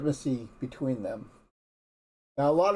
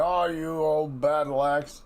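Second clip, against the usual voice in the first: drawn-out grumbling complaint at a spouse; slow, lightly hammed-up nag; mock nagging husband; 3 semitones higher, slower than usual. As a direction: act out a husband griping. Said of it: "you're not seeing nagging".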